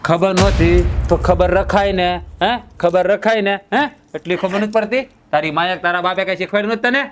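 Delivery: harsh, rising scold, fast at the end; scolding husband. Acted. Husband scolds his wife for not serving him food, harshly. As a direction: berate her for not knowing her duty.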